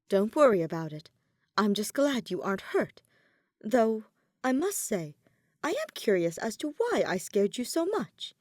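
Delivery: a lightly voiced calm, caring Edelgard; reassuring girlfriend. Edelgard comforts startled Lysithea, lightly voiced reassurance. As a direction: soothe her, then ask gently.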